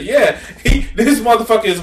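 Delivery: words broken up by real laughter; laughing. Real, not acted. Mocking the clip's guest, laughing. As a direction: laugh through the insult.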